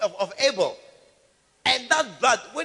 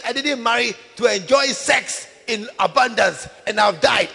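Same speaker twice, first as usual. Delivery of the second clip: put-on lamenting girl; 7 dB louder than usual. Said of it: "this girl should say".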